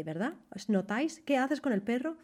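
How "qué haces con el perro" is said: "perro" rising at the end; rising question. Shown as a demonstration. Teacher showing the Spanish rising question tune. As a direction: lift the end of "¿Qué haces con el perro?" upward. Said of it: "En alemán suena algo apremiante".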